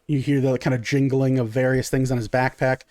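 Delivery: usual speaking voice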